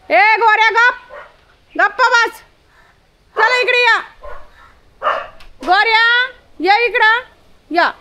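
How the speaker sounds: high, loud shout to hush a dog; scolding a dog. Real, not acted. Woman hushing her dog Gorya and calling him over, high loud shout. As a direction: bark an order at the dog to shut up.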